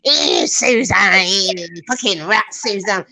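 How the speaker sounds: slow, drawn-out mock Philly drawl; hammed-up Philly rant, words stretched; Philly accent. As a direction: drag out the insults in an imitated Philly voice. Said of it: "She talks like that. She's like a Philly".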